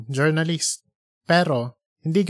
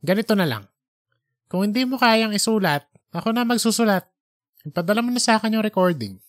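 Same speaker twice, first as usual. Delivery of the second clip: higher, quickening boss voice; pushy editor; 6 semitones higher, faster than usual. Acted. Editor demanding the recording from Junjun, impatient. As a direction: rush him into handing it over.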